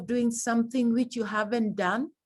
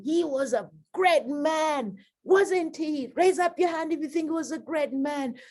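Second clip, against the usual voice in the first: higher, rousing, engaging the crowd; rousing eulogy; 5 semitones higher than usual. Shown as a demonstration. Teacher demonstrating a lively eulogy to an audience, rising and rousing. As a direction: lift the room up. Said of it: "You're saying".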